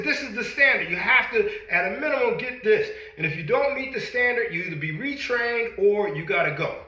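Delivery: army drill instructor. Retold or imitated. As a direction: bark the rules like a drill sergeant. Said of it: "But the Army said".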